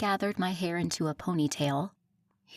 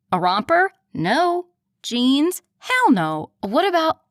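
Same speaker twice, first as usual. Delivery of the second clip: pleading bargaining; 8 semitones higher, 9 dB louder than usual. Acted. Rapid back and forth pleading.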